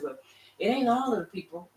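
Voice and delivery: mock objection. Preacher mimicking people who object, mock protest. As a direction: put on the doubters' protest. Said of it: "some people say".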